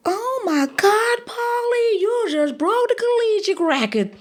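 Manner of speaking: very high, drawn-out tearful wail; high-pitched retold sobbing cry; imitated bawling. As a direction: wail it slowly like someone overcome with joyful tears. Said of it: "he's bawling".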